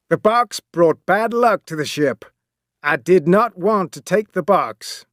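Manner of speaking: captain. Acted. Captain's voice in story.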